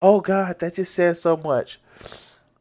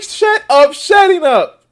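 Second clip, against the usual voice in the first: mock pleading, much higher; squeaky hammed-up "shut up"; imitating Tucker; 10 semitones higher, 6 dB louder, slower than usual. Streamer mimics Tucker begging Gaetz to stop, high mock plea. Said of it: "he's like".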